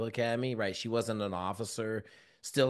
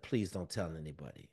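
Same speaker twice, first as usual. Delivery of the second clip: pleading; 6 semitones lower, 8 dB quieter than usual. Retold or imitated. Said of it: "I kinda started crying".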